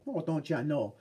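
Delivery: attempted Chicago accent that lands in Minnesota; mock Minnesota accent. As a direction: put on a light Minnesota accent. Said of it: "That's more Minnesota".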